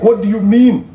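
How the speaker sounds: stammering defence; high-pitched flustered husband; voicing the flustered husband. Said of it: "the guy is like".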